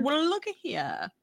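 lightly pitched "looky here"; Carmen Lang impression. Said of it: "I can't do it justice".

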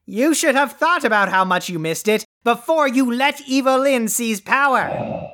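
yelling. Acted. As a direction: scold the one who missed your yelling, stretching the last words. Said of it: "your yelling".

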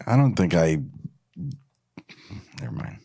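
ordinary talk, nothing marked

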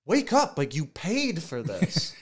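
high-pitched, insistent plea to wake up; exasperated wake-up call, jumping high on the first words; urgent waking-up. Retold or imitated. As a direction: shake a sleeping friend awake with your voice. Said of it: "was shaking me awake".

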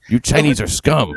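put-on idiot voice, hint of accent; lightly mocking dimwit delivery. Host finishes the attacker's quote, mock idiot voice. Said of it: "like a little Asian kind of accent".

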